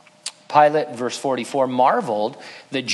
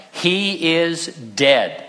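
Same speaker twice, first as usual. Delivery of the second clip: centurion's verdict; 2 semitones higher, much slower than usual. Acted. Centurion's flat verdict to Pilate.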